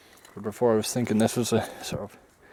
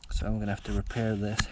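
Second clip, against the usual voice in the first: out of breath; winded after hard work; gasping for air. Real, not acted. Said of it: "Sorry, I'm out of breath".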